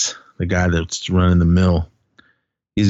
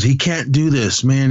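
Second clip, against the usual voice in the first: higher-pitched imitated pleading; retold protest; 5 semitones higher than usual. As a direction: act out an appeal to reason. Retold protest against what is happening.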